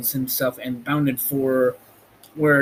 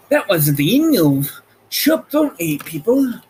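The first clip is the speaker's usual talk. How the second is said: playful sign-off; 6 semitones higher, 5 dB louder than usual. Real, not acted. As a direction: voice jumps high on chapter eight.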